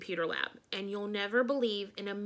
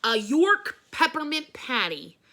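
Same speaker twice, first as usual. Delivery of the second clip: slow, loud triumphant reveal; grand reveal; 4 semitones higher, 7 dB louder than usual. Acted. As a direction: announce it like a magic trick. Teacher reveals candy.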